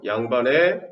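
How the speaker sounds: dragged out slowly for notes; slow dictation. Shown as a demonstration. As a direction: let them write it down. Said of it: "써놓으세요". (필기하게 천천히 불러주기)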